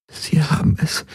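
breathy whisper, barely voiced. A narrator's reading. Ylana whispers the grim end of her news. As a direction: let the words fall to a whisper.

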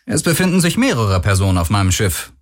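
ordinary delivery

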